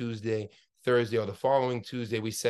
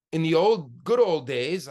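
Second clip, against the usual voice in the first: mildly sarcastic, pitched-up emphasis on the phrase; somewhat sarcastic; 3 semitones higher, 5 dB louder than usual. Real, not acted. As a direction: say it with a touch of sarcasm, leaning on the words. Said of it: "I say that somewhat sarcastically".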